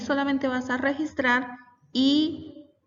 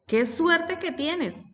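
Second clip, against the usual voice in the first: higher, slow, exclaiming example sentence; exclamatory demo; 6 semitones higher, much slower than usual. Shown as a demonstration. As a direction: read it out as a delighted exclamation, slowly. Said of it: "Es una oración de carácter exclamativa". (exclamación lenta y aguda)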